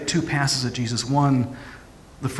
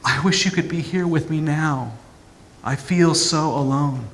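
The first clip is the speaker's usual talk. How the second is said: put-on hurt child voice; 4 semitones higher, 3 dB louder than usual. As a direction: call out like a small frightened child. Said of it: "that free child voice".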